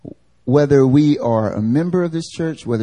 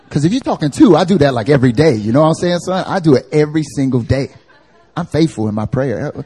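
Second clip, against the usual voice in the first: brash bragging; 4 dB louder than usual. Retold or imitated. Churchgoer bragging, louder.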